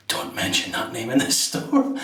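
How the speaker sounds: laughing through a mock warning; joking warning. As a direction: tease it with a laugh. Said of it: "Jokingly, the guy said".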